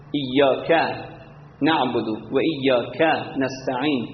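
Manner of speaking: ایاک said with a short final vowel; short vowels unstretched. Shown as a demonstration. Teacher showing short vowels in prayer, ایاک without elongation. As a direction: keep the vowel ending ایاک brief, not drawn out. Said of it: "حرکت کوتاه کشیده نشه".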